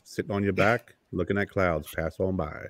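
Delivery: a hint of Morgan Freeman, soft and dreamy. Husband soothing his fiancee, lightly voiced Morgan Freeman. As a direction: drift off gently like a mild Morgan Freeman. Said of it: "and I just go".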